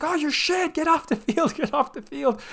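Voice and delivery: very high, strained mock scream at a player; imitated screaming fan. Man next to me screaming at Feghouli, very high mock yell. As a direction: ham up an angry fan yelling at the pitch. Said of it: "kept screaming at".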